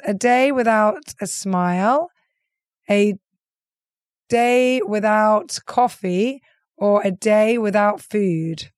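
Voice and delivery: options read out slowly, word by word; slow, halting read-aloud; slow careful reading. Shown as a demonstration. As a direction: spell each option out slowly as if deciphering handwriting. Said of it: "I hope I can read their writing".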